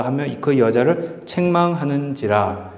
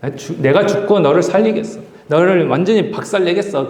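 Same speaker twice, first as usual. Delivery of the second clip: defiant vow, pitch rising higher; angry resolve; 4 semitones higher than usual. Acted. Jesus vowing to die and crush death, building defiant anger. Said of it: "화가 나니까".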